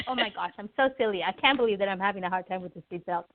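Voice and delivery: mildly amused, quick self-teasing; laughing. Acted. Cheerful passenger laughs at own silliness, mild acted laughing. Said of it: "And they're laughing".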